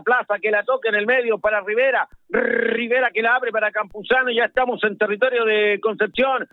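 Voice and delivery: football radio commentary, running with the ball; South American radio football commentator; live play-by-play. Real, not acted. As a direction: call the match live on radio.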